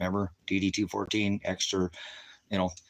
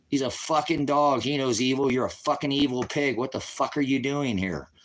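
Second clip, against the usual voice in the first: raised, heated telling-off, building higher and harder; angry retold scolding; 4 semitones higher than usual. Dog owner berating cop in retelling, angry. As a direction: chew someone out, punching the swear words.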